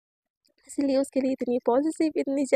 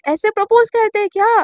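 "Propose" said louder and higher the second time; repeated louder; 5 semitones higher, 7 dB louder than usual. Retold or imitated. Misha repeating her question louder to Shaili. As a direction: repeat it louder for a listener who missed it.

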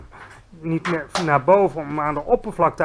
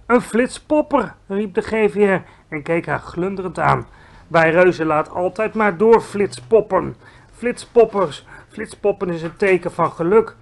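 a giant thrilled by the word; delighted giant; 3 semitones higher, 4 dB louder than usual. Acted. Giant telling Sophie about whizzpoppers, delighted.

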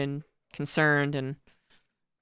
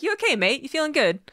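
imitating Roddy; 10 semitones higher than usual. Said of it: "Roddy would just be like".

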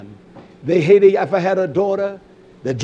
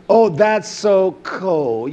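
mock complaint; much slower than usual. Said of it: "You don't know what coldness is".

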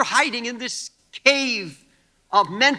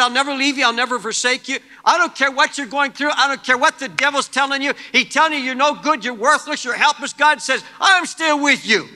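God's promise; 4 semitones higher, 5 dB louder than usual. Acted. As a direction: voice of God, raised and louder, a touch of preaching fervor. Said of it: "He said".

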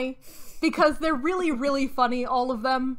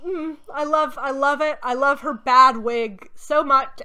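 gushing; 5 dB louder than usual. Real, not acted. Fond mockery of the wig.

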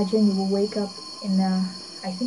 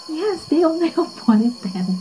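laughing mid-sentence, a bit higher and louder; 8 semitones higher, 6 dB louder than usual. Real, not acted. Vlogger laughing to viewers about their single tent. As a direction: giggle through the joke about the tent.

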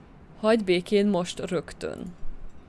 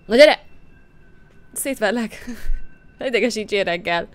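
shouted challenge; 6 dB louder than usual. Acted. She dares the drunks to come at her, shouting. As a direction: bark it like a street fighter.

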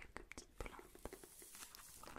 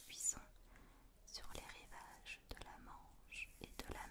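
whispered reading. Acted. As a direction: read it gently, barely voiced. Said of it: "je vais te faire une petite lecture chuchotée".

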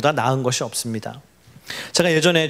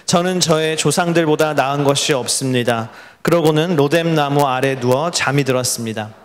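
even, measured read-aloud on a level pitch; congregational scripture reading. Real, not acted. Preacher leads the congregation in reading the passage, steady recitation. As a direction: read the verses steadily for others to follow.

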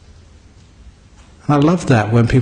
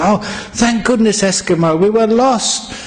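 relieved exclamation; 8 semitones higher than usual. Acted. Lost men greet Eskimo.

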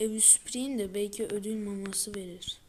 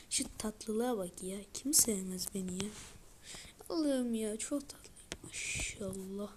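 soft whispered cooing; 3 dB quieter than usual. Real, not acted. Gamer adoring his cute cat character, soft cooing whisper.

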